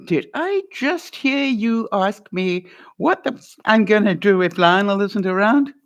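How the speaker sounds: challenging, pushing back; a confrontational question that invites a fight; slightly pointed demand for a repeat; pushy wrong way. Shown as a demonstration. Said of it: "Don't do that".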